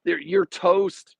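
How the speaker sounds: ordinary talk, nothing marked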